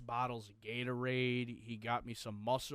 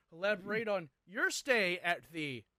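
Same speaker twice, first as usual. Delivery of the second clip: sarcastic; 5 semitones higher than usual. Acted. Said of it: "I'm kidding".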